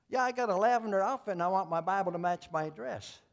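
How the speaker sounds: mock-cheerful churchgoer wanting her Bible to match her dress; chirpy lady. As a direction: play the vain lady brightly pleased with her outfit. Lady voiced, high and loud.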